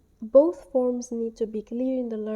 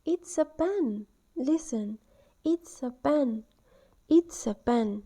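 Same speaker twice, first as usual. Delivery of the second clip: clear, slow "It's a pen" for beginners; teacher modelling; 2 semitones higher, slower than usual. Shown as a demonstration. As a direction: model the sentence slowly and clearly. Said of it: "You can hold the pen and say".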